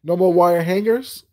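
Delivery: lightly hammed-up rage; quoting Mommie Dearest. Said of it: "Ooh, not".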